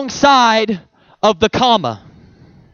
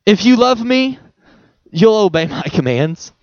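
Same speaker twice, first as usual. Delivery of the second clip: gentle Jesus voice. Retold or imitated. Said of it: "when Jesus is saying".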